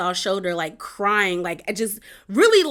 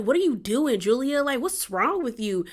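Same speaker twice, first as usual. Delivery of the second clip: higher, incredulous what are you doing; indignant disbelief; 4 semitones higher than usual. Retold or imitated. Marisol to Julia, higher indignant disbelief. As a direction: call out the attack in disbelief. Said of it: "And Marisol's like".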